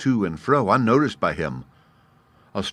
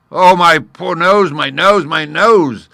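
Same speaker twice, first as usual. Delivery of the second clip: much higher, loud wailing moan; moaning lion; 10 semitones higher, 11 dB louder, slower than usual. A narrator's reading. Stung lion moaning about his nose. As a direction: howl in pain. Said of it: "the lion began to moan".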